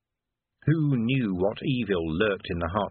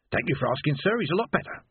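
chatty porter; 5 semitones higher than usual. Acted. Porter Maroon speaks.

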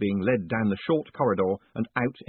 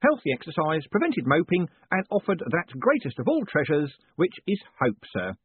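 a beaming prison warden teasing his prisoner; jovial warden; 8 semitones higher than usual. A narrator's reading. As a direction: play the cheerful warden gloating kindly. Warden continues.

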